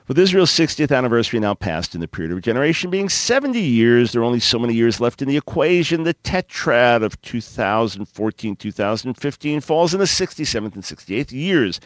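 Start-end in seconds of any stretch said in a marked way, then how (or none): 0.0-6.0 exasperated, sighing read-through; weary sigh reading. Shown as a demonstration. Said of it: "breathe deep and sigh with me".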